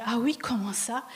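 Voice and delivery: airless, whispery question; acted breath-holding whisper; stomach sucked in. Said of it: "je rentre mon ventre".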